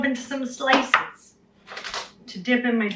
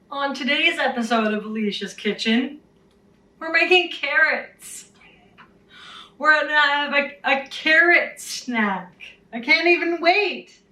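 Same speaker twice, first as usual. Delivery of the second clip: put-on bubbly sorority girl; 5 semitones higher than usual. Mock cooking show host.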